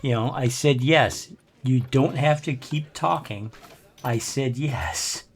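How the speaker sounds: slow, patient, over-deliberate insistence; drawn-out mock-weary I said yes; exasperated repeat. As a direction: spell it out slowly, fed up with the caller. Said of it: "And I'm like".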